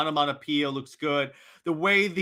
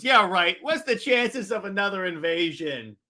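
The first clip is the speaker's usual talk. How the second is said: Green Lantern; 3 semitones higher than usual. Acted. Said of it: "Green Lantern goes".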